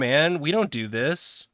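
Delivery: mild mock outrage; lightly hammed-up indignant objection; mock yelling body. The body telling its owner off for exercising, mock yelling. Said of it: "it yells at you".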